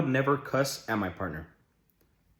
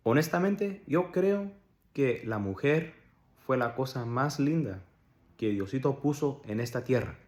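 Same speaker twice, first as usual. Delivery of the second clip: soft, measured Spanish setup; mock tender; 4 dB quieter than usual. Vlogger praising women before snapping at a partner, mock tender. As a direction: say it softly, like a gentle tribute.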